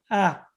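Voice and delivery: small "ah" imitating a timid wrestler; a shout that never gets going; mock feeble attempt at being loud; half-hearted yell. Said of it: "Is that as loud as you".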